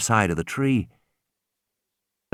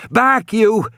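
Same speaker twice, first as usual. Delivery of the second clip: commanding shout; 11 semitones higher, much slower than usual. A narrator's reading. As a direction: drive it back with your voice. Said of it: "Regis shouted".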